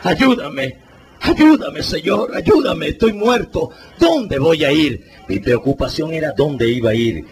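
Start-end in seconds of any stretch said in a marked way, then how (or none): 0.0-5.0 ruego agudo que sube de golpe; súplica al Espíritu Santo. Retold or imitated. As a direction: clama por ayuda desde la angustia. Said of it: "empecé a decir estas palabras". (alma perdida clama al Espíritu Santo, suplicando)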